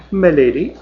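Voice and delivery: a mock-posh English my lady; curtsy it out in plummy English; upper crust English. Dell mockingly curtsies to Mavis in a posh English accent. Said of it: "upper crust English accent".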